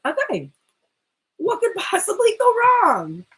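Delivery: overexcited suitor psyching himself up; working himself up. Acted. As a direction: hype yourself up, voice climbing. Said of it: "he's kinda, like, working himself up".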